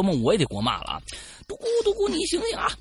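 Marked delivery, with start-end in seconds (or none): 1.5-2.7 high urgent call to wake him; high, anxious wake-up call. Acted. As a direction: shake him awake, voice pitched high.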